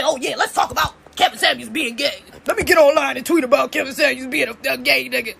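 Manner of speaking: a hint of a smug commenter; mocking online critics. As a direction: sneer it like a gossip hungry for clout. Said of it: "and then say".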